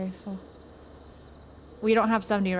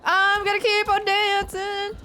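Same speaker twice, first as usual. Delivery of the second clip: high, slow, bubbly squeal; excited; 9 semitones higher, 4 dB louder, slower than usual. Real, not acted. Excited gamer shouting catchphrase.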